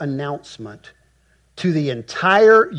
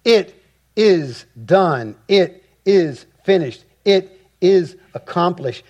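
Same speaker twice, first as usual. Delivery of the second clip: raised, emphatic proclamation, hitting each IT high; loud voice from the throne; 4 semitones higher, 4 dB louder than usual. Acted. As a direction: declare each statement as a final verdict. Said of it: "a loud voice came out of the temple".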